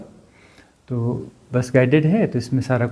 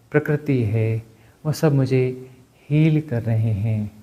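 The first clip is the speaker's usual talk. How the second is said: measured, even self-healing chant-like speech; guided healing affirmation. Real, not acted. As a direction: affirm it phrase by phrase, with pauses.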